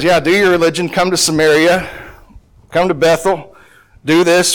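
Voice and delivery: mock invitation; sarcastic permission. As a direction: wave them on with scorn. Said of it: "this is all sarcasm".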